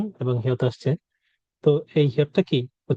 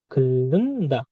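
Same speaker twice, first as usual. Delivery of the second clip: slow model; slower than usual. Shown as a demonstration. Teacher stretches the word for learners.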